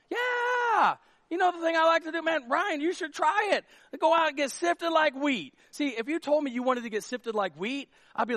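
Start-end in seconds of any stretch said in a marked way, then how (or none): 0.1-5.5 bright, higher, excited sales pitch; eager friend. Pretend. Imagined friend urges Ryan to get sifted, higher and eager. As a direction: sell it like your favourite hobby.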